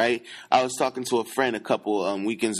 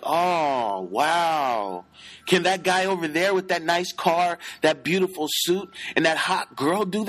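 impressed onlookers; 4 semitones higher than usual. Retold or imitated. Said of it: "And then they're like".

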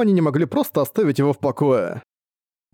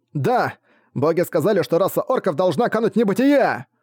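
fanatical cry; 6 semitones higher than usual. Acted. Fanatic proclaims doom to orc.

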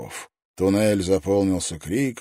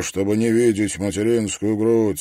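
plain reading voice

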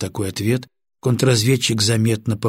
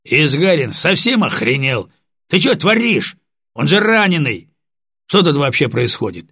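indignant outburst; 5 semitones higher, 4 dB louder than usual. Acted. Lieutenant bursts in indignant.

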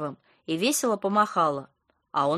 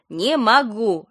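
louder, grumpy "Не могу"; sleepy and cross; 3 semitones higher, 6 dB louder, much slower than usual. A narrator's reading. Friend repeating herself on phone, sleepy irritation. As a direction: snap "Не могу" clearly, still drowsy. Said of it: "Лена звучала сонно и сердито".

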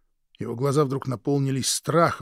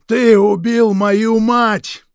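much higher, much louder, slow shouted charge; furious accusation; 12 semitones higher, 16 dB louder, much slower than usual. Acted. Krik accusing his brother of killing their mother, shouting. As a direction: hurl the blame at him.

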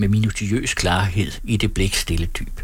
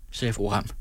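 usual speaking voice

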